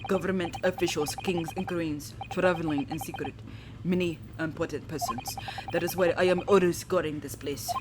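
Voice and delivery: a lightly voiced, self-important Russian guard; boastful Russian sailor. The guard showing off his post to visitors, in a mild Russian accent. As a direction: brag about the VIP deck in a Russian accent. Sailor explains cabin area.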